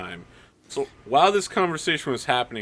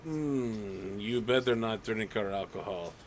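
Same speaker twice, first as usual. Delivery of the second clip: stern guard; 3 dB louder than usual. Acted. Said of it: "He's like".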